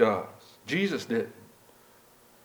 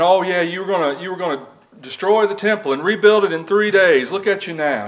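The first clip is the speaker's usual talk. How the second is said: sneering crowd jeer, a bit louder and higher; mild mock jeer at a man on the cross; mocking taunt; 5 semitones higher, 5 dB louder than usual. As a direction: taunt him like a scornful passer-by. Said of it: "the venom that's coming out of their mouths".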